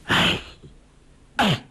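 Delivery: two weary sighs; heavy sighs. A narrator's reading. Old master sighing over Guo Jing, heavy sighs. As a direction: sigh out the grief. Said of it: "叹道".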